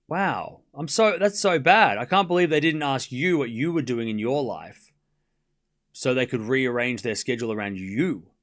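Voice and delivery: exaggerated sarcastic concern; dripping sarcastic sympathy for someone inconvenienced; mock sympathy. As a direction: feign apology to needle a complainer. Mocking an impatient chatter.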